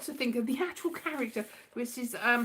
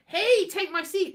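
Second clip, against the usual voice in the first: friendly offer; 7 semitones higher, 5 dB louder, slower than usual. Retold or imitated. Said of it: "he said to my mum".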